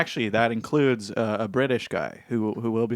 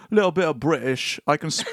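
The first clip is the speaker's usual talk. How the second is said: attempted British lilt; bad British accent; 2 semitones higher than usual. Shown as a demonstration. Host showing his accents all turn British, bad British accent. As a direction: try a British accent, badly. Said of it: "that's still so bad".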